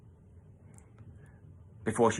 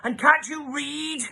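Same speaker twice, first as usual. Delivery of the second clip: scolding dinner lady; 13 semitones higher, slower than usual. Acted.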